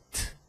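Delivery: "t" as a bare voiceless tap; just the t, no vowel after it; consonne pure. Shown as a demonstration. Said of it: "é a consoante pura".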